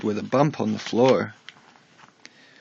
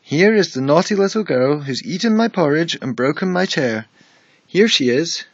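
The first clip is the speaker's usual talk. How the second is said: high and louder, a little cub shouting; tiny voice, loud as he can; 5 semitones higher, 4 dB louder than usual. A narrator's reading. Baby Bear calling out the girl in his bed, shouting small voice. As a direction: shout with all the might of a small voice. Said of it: "making his tiny little voice as loud as he could".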